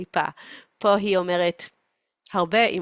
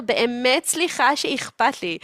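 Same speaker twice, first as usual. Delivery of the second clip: high, huffy apology; a touch of wounded pride; mock insulted; 5 semitones higher than usual. Mother apologizing for caring, mock insulted. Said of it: "היא כל כך נעלבת".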